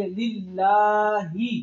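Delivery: slow "लिल्लाहि" with long laa and plain h; open final h. Shown as a demonstration. Teacher models the other ha for class, open h. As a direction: stretch "लिल्लाहि", ending on an open breath h. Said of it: "ये दूसरी हा है ये".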